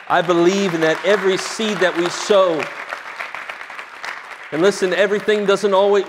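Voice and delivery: emphatic declaration of faith; impassioned preaching. Real, not acted. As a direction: preach it with firm conviction.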